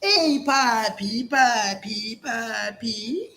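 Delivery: flirty Colombian woman. Retold or imitated. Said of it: "The first day".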